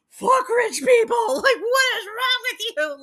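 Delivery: high, loud outraged yelling; furious shout. Retold or imitated. Bloodied girl screams back at the rich driver, high furious shout. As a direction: unload on them at full volume.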